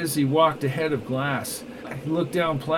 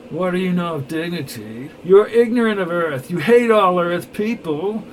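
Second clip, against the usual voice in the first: louder, higher confronting voice; indignant accusation; 3 semitones higher, 6 dB louder than usual. Acted. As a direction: throw the accusation in his face. Glass confronts Neville angrily.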